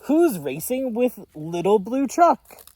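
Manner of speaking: high, loud hen cry; clucking hen. Acted. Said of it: "Hen cried".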